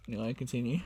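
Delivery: whispered, embarrassed go-ahead; sheepish whisper. Real, not acted. Friend whispering sorry after giggling at big tip. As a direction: whisper to let him carry on.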